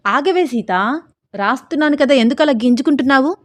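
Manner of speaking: half-hearted scolding call to stop struggling; shouting at her. Acted. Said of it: "అని అరిచి".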